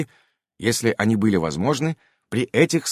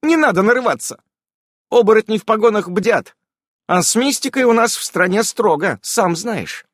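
loud stern witch warning; 11 semitones higher, 5 dB louder than usual. A narrator's reading. Irene warning.

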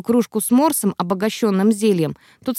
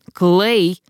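a touch of anger, name called out; mildly annoyed call of the name; angry call; 3 dB louder than usual. Acted. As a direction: snap his name in mild irritation. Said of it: "разозлилась я".

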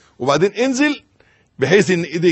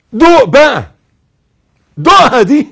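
urging; 9 semitones higher, 12 dB louder than usual. Real, not acted. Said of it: "حسها".

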